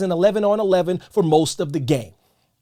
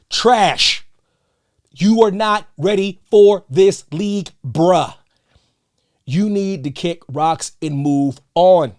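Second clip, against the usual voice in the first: louder, cutting retort; angry telling-off; 5 dB louder, slower than usual. Real, not acted. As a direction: put him in his place. Telling the coach off.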